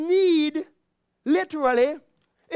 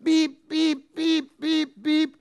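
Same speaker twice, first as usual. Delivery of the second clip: alarm beeping; much slower than usual. Retold or imitated. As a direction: imitate a security alarm going off. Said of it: "what happens?".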